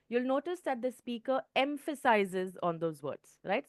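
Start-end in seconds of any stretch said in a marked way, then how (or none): 1.5-2.6 "emphasizes" given deliberate extra weight; stress on emphasizes. Shown as a demonstration. Teacher showing students how speakers stress answer words, "emphasizes" stressed. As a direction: lean on the word "emphasizes" on purpose. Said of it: "I just now emphasized the word emphasize".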